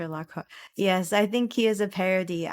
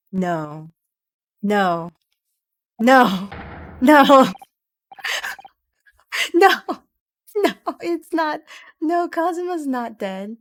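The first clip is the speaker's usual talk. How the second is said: disbelieving no, swelling from a murmur to a wail; building denial; 5 semitones higher, 9 dB louder than usual. Real, not acted. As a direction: go from stunned denial to shouting it. Denying friend's death, growing louder.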